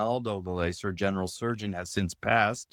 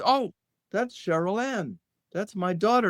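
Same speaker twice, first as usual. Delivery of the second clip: much higher, lightly imitating a puzzled father; retold mild surprise, pitched up; mock puzzled; 10 semitones higher than usual. Father answers guest about the young lady, mildly puzzled imitation. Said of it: "with a question mark".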